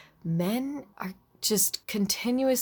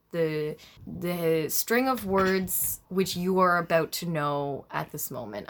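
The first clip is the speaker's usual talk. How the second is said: youth pastor voice. Real, not acted. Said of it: "I'm talking like a youth pastor".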